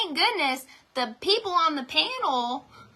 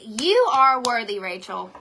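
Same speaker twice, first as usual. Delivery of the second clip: mirror affirmation; 4 dB louder than usual. Retold or imitated. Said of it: "look in the mirror and say".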